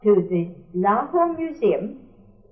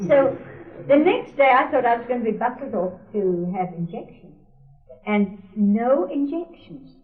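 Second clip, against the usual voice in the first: ordinary talk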